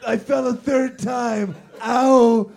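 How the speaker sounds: high yelling in pain; high pained shout. Acted. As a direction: yell high, hurt and frantic. Falls again, shouting.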